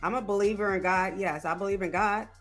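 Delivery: usual speaking voice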